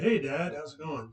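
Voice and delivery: lightly voiced daughter saying hi; American daughter greeting. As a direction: greet Dad casually as an American girl. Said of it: "in the U S, she said".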